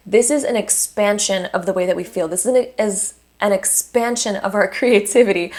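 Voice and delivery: tripping over the words, restarting; stumbling and repeating words; stuttering. Real, not acted. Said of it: "I'm stuttering on my words today".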